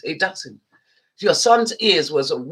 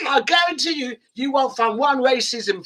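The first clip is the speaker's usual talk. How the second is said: emphatic; 4 semitones higher than usual. Real, not acted. Heated rant about racist fans.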